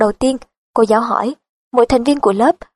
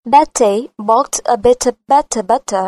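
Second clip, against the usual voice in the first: British accent, every T sharp and crisp; slower than usual. Shown as a demonstration. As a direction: say it the British way, clipped T sounds. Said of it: "Giọng cô giòn và sắc". (giọng Anh, âm T giòn và sắc)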